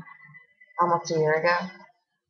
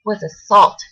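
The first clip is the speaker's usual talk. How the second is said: heated reproach; 3 semitones higher than usual. Acted. Confronting friend over the assault.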